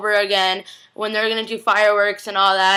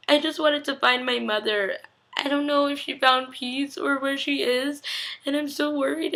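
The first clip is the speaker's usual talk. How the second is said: higher, softer, slowed plea; softly acted worry; 4 semitones higher, 4 dB quieter than usual. Retelling a daughter missing her mother, softly worried. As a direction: imitate a sad daughter, quietly.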